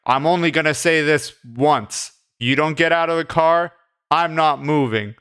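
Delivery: mildly tough, laying down the law; lightly acted bravado; putting foot down. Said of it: "he's being really tough".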